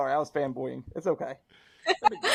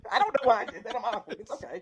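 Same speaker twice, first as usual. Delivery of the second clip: giggling, embarrassed at his own slip; laughing through words; 6 semitones higher than usual. Real, not acted. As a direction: say it while a giggle breaks out. Giggling fit after a slip.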